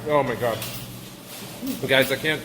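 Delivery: chewing while talking; mouth full. Real, not acted. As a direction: talk through a mouthful. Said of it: "I'm talking with my mouth full".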